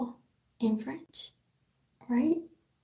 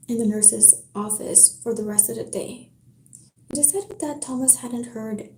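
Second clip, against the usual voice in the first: story narration. Acted. Reads a novel aloud to chat.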